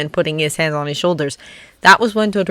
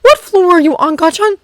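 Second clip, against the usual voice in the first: urgent question; 13 semitones higher, 5 dB louder than usual. Acted. Canary figure voice.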